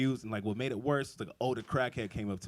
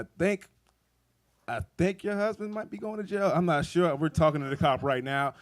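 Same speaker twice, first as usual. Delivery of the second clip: much higher, strained and louder; nervous high-pitched; 7 semitones higher, 7 dB louder than usual. Retold or imitated. Telling a friend's wife her husband may go to jail, high and nervous. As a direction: squeak out the bad news.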